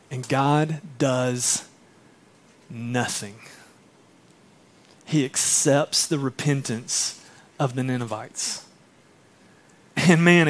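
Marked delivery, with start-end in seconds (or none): 0.1-8.6 hushed reveal. Real, not acted. Dramatic reveal in sermon.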